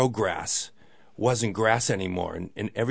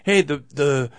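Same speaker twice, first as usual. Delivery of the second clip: higher and louder, bursting to share the news; giddy news; 4 semitones higher, 6 dB louder than usual. Retold or imitated. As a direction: blurt out the good news like an excited caller. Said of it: "He goes".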